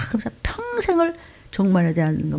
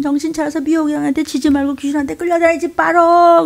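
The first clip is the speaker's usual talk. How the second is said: forceful command; 7 semitones higher than usual. Real, not acted. Preacher commanding congregation.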